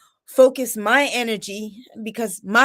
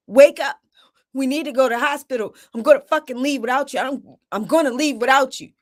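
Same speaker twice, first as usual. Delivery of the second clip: urgent rousing; 3 semitones higher than usual. Retold or imitated. Mother rousing partner for the hospital, urgent. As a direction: hurry a sleeper out the door.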